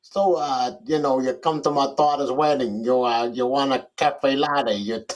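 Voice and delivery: a hint of a mobster, slow and mumbled; lightly voiced New York gangster, unhurried; Robert De Niro. Shown as a demonstration. Co-host dares him to do his De Niro, lightly voiced mobster. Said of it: "I did my very best Robert De Niro".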